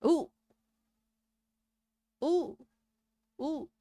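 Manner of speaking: excited ooh. Real, not acted. Excited reaction to game scene.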